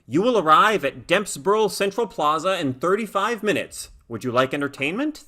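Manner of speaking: a lightly voiced polite machine; even, toneless navigation voice; soft neutered car voice. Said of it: "in its soft, neutered voice".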